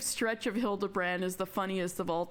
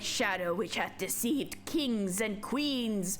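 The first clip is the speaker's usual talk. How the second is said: grand announcement; 2 semitones higher, slower than usual. Acted. Grand introduction of a character.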